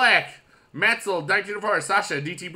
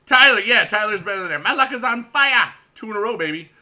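excited fan; 6 semitones higher, 9 dB louder than usual. Acted. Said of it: "It says".

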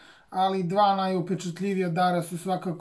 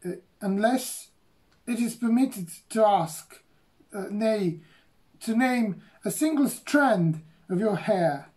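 stammering; 3 semitones higher, slower than usual. Acted. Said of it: "bowing low and stammering".

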